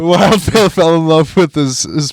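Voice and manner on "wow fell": laughing wow. Real, not acted.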